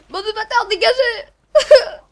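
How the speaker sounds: loud drawn-out yell at the bugs; angry yell. Real, not acted. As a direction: shout them away, stretching the last word. Yelling at enemies. (cri de rage étiré)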